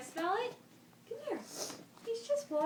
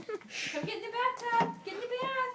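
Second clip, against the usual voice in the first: talking to a dog; 7 semitones higher than usual. Real, not acted. Coaxing the dog into bath.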